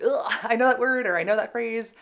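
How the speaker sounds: mock frustration with yourself; self-annoyed. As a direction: act out kicking yourself over a slip. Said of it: "seeing myself make any mistakes is always like".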